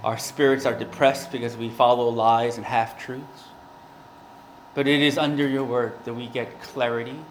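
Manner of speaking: earnest, measured prayer voice. Acted. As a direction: pray it aloud before the congregation. Opening prayer before sermon.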